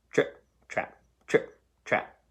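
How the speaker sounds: whispered trip trap; whispered hoofsteps. Acted. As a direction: breathe it like tiny hooves tapping. Hooves on the wooden bridge.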